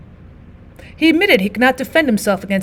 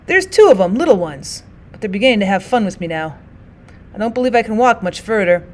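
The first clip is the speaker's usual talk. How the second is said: tattered soldier voice. Acted.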